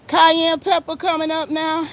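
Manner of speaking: breathless after spraying; winded, short on air; out of breath. Real, not acted. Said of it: "Ooh, I'm out of breath".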